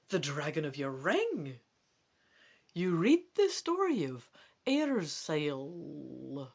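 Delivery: lively storybook reading voice; story narration. A narrator's reading. Reading a gamebook page aloud, animated narration. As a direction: read the adventure to the listener with energy.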